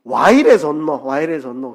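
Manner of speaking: loud Gyeongsang dialect cry of delight, then easing; 경상도 사투리로 크게 외치듯; Gyeongsang dialect exclamation. Shown as a demonstration. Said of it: "그 말입니다".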